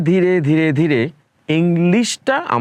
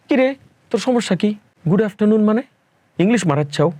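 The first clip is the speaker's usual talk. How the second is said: mocking friend in rural Bangla dialect; গ্রাম্য আঞ্চলিক ভাষায় ঠাট্টা; regional Bangla dialect; 5 semitones higher, faster than usual. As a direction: tease him in thick village Bangla dialect. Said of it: "একদম আঞ্চলিক ভাষায় বললাম কথাটা".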